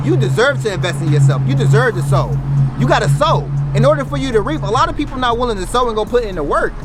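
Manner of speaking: rising, loud preacher-like push; booming motivational speech. Real, not acted. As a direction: build it up and hammer it home. Motivational peak, rising intensity.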